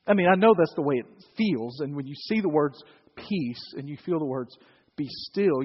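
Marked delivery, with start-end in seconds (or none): 3.1-3.7 softly soothing; a gentle, quiet word; nice and comforting. Shown as a demonstration. Quoting the words as they feel on reading, comforting. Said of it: "you want it to be that nice". 5.0-5.6 softly soothing; gentle, low-key reassurance; nice and comforting. Shown as a demonstration. Quoting the words as they feel on reading, comforting. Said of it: "you want it to be that nice".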